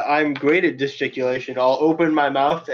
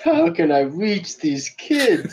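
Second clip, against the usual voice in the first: mock earnest teacher; 4 semitones higher, slower than usual.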